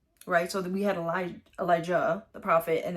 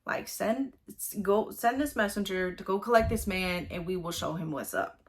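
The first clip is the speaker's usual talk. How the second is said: much higher, louder exasperated Elisha; exasperated prophet; 3 semitones higher, 3 dB louder than usual. Retold or imitated. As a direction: scold the king like a buddy. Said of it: "that's what he's saying here".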